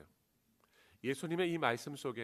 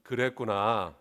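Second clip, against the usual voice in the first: empathetic; 4 semitones lower, 6 dB louder, slower than usual. Shown as a demonstration. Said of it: "한번 따라해보겠습니다".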